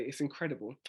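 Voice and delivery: "It's incredible." ending on a quiet settled fall; tag-question dropped. Shown as a demonstration. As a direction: let "incredible" land and stop. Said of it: "drop that and say".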